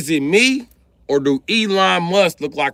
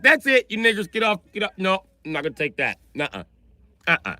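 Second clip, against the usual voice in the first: Elon Musk voice; 5 semitones higher than usual. Retold or imitated. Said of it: "Elon Musk was like".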